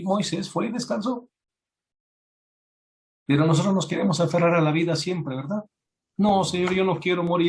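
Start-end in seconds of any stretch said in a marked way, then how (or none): 6.2-7.5 higher, louder mock whimper; mock whining plea. Preacher mimics a believer begging not to die. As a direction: whine like a scared child begging. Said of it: "Ezequiel llorando".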